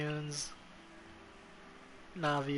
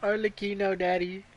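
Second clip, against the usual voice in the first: higher, eager call to a crush; fangirl call; 4 semitones higher than usual. Real, not acted. Streamer calling to a favourite character, eager swooning call. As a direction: swoon out the name.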